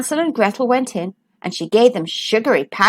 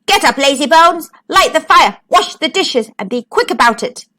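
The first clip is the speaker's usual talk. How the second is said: bossy witch yelling orders; shouting witch; 3 semitones higher than usual. Acted. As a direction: yell the chores at her like a witch. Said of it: "She shook Gretel and shouted".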